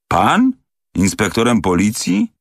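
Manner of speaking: can't believe what he's hearing; startled, high-pitched double-take; stunned disbelief. Acted. Valet stunned by revelation.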